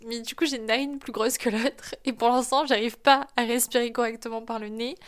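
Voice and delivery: talking through a stuffy nose; congested nasal voice after nose surgery; blocked nose. Real, not acted. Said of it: "Donc je parle du nez".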